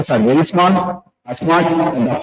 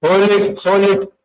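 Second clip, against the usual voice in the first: holding breath cue; 6 semitones higher than usual. Shown as a demonstration. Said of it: "take a deep breath".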